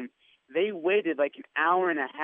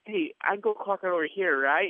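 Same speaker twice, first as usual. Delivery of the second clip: higher-pitched, innocent act of being lost; feigning lost; 4 semitones higher than usual. Retold or imitated. Pretending to be lost to a security guard, feigned innocence. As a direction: play lost, pitched up a little. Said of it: "I pretend like I'm lost".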